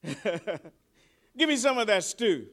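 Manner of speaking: slow, laughing Esau begging for stew. Retold or imitated. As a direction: chuckle through the hungry plea. Esau's plea retold with a laugh.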